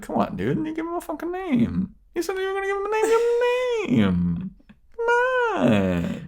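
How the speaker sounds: high, pleading frustrated yell; exasperated shout. Retold or imitated. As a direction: beg him to name the dog. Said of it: "I was like".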